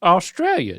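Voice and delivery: Australia said in a mock Australian accent, OSS-tray-lya. Son trying his dad's Aussie accent. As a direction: try an Aussie twang on Australia. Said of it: "do that accent they talk like".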